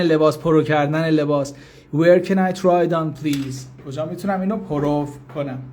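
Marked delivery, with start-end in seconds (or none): 1.9-3.9 slow, carefully spaced English; slow teaching demo. Shown as a demonstration. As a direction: spell it out slowly for learners. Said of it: "teacher repeats phrase for learners".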